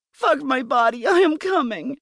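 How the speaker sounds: high, rising cry of passion; carried away, voice climbing; ecstatic outcry. A narrator's reading. Heroine's cry of climax continues.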